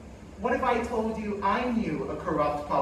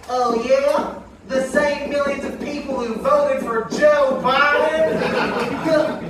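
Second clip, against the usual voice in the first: smug know-it-all aunt, a little higher; Aunt Karen puppet voice; 4 semitones higher, 4 dB louder, slower than usual. Acted. Ventriloquist's dummy aunt retorting, smug.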